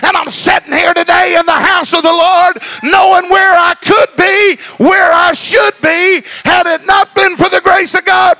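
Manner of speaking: fervent preacher shouting over the music; preaching at full force. Acted. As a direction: lift the church with a rising cry.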